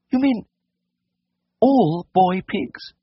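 very high, slow falsetto question; incredulous, embarrassed lady. A narrator's reading. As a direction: ask timidly, drawing out the words. Lady timidly questions the vet.

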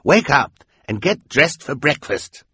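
slow, loud villain calling; Count Olaf voice. Acted. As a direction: call out like a gruff villain. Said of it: "calling through the door".

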